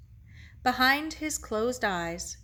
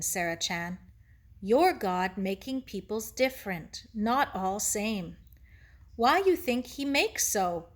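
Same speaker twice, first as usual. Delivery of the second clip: lightly voiced Japanese-accented sage; gentle teacher Ito. Ito explains heaven to Sarah, gently thoughtful. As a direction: explain patiently in short, separated phrases.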